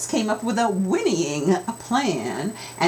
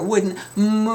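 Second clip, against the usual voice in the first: drawn-out move; 4 semitones higher than usual. Shown as a demonstration. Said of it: "I'm gonna make it longer".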